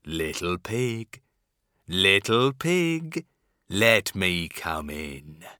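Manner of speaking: lightly growled wolf voice, slow; low slow growling wolf; werewolf. Acted. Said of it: "growled the wolf".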